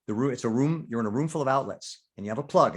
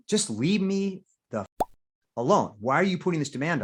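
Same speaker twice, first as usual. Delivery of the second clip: irritated outburst, higher at first, then easing; 5 semitones higher than usual. Acted. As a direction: act fed up, dragging out the first words.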